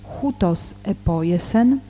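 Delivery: measured Greek scripture reading, pausing between phrases. Real, not acted. Teacher reads the Gospel in Greek to listeners, measured scripture reading. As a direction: read the Gospel aloud, phrase by phrase.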